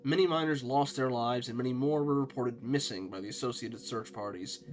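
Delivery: steady reporter's read; news article read. Acted. Reading the mine disaster article to viewers, newsreader style.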